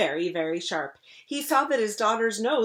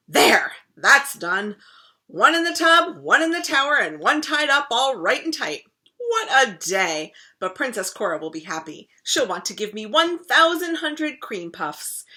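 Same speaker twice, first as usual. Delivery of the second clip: pleased; 5 semitones higher, 8 dB louder than usual. Acted. Crocodile gloating to himself.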